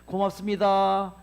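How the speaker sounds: loud, slow, clearly spoken thank-you; bright thanks. Shown as a demonstration. Lecturer saying thanks to water before freezing, loud and slow. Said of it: "이렇게".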